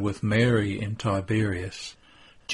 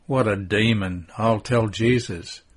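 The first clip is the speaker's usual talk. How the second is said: mild exclamation. Acted. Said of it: "exclaims Mary of Alphaeus".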